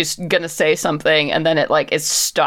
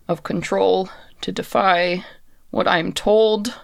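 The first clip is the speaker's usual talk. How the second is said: slow, halting, spaced-out words; measured admission, pausing between phrases; constrained puppet messenger; 3 semitones higher than usual. Acted. Servant on a short leash admits her limits, halting and deliberate. Game master voices the captive messenger.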